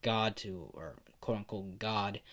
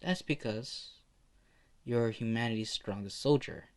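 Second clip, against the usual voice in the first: put-on little kid. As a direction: pitch it up like a hesitant kid. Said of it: "the little kid says".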